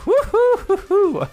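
high, slow hooting whoop; excited whoop. Acted. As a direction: whoop like it's too hot. GM flustered by sexy pose.

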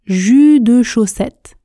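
"jus de chaussette" with the E in de; full form. Shown as a demonstration. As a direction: sound every syllable of "jus de chaussette". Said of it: "se prononce jus de chaussette". (« jus de chaussette » avec le E de de)

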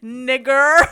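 "Nigger" ending in a strong R; hard R. Shown as a demonstration. Friend correcting how an old racist would say it, hard R. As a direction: punch out "Nigger" loudly with a hard R. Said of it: "you gotta say it like that".

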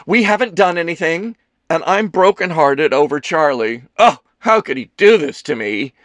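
high, loud theatrical lament; melodramatic heartbreak. Acted. Kelsey brokenhearted over Charlie, lamenting melodramatically. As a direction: play the jilted drama queen.

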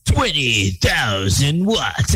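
announcer voice. Retold or imitated.

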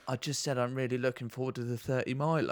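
half-crying, embarrassed repeat; mock tearful, like a caught-out recruit; sheepish whimper.

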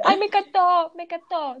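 high gushing voice imitating a friend; gushing fangirl. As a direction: gush like an overexcited fan. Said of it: "escuchar a Pame decir".

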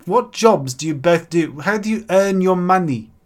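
odd New Zealand-South African hybrid; mixed New Zealand-South African accent. Acted. Adviser questioning mortgage couple, mixed New Zealand-South African accent. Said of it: "a mix of New Zealand and South African".

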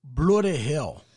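drawn-out bad Australian accent; slow, botched attempt at sounding Australian. Podcast host attempting an Aussie curse for the co-host, botched Australian accent. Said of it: "trying to do an Australian accent".

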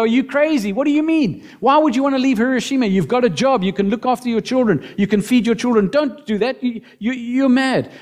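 family scoffing. Retold or imitated. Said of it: "her family listen to her and go".

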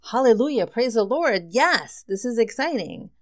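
loud, high hallelujah cheer; churchy whoop of joy; joyful cheer. Real, not acted. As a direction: cry out in thrilled praise. Joyful praise at a tarot card.

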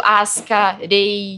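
Asuka as AS-ka with U swallowed, then Rei; original pronunciation kept. Shown as a demonstration. Dubber citing Netflix's demand, Asuka in Japanese pronunciation. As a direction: say Asuka in two slow beats, low. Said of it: "exigiu que eles mantivessem a pronúncia".

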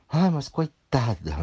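slow, loud mock pity. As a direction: drag out fake sympathy. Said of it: "imitating objectors".

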